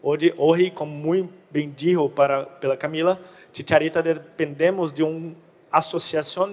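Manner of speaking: Portuguese speaker attempting Spanish; Portuguese mixed with Spanish words; portunhol. Real, not acted. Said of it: "hablo portunhol".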